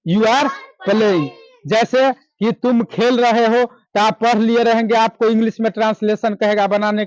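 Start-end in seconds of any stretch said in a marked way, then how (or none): 0.1-1.3 drawn-out repeat, each word apart; slow, patient second take; slow repeat of the answer. Shown as a demonstration. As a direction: repeat it slowly so the class catches it. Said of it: "क्या?".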